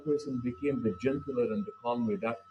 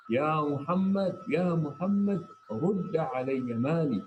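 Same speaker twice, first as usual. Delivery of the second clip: a retold hostile yell, higher pitched; mock yelling; 5 semitones higher than usual. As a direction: call out rudely, stretching the name. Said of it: "he starts yelling".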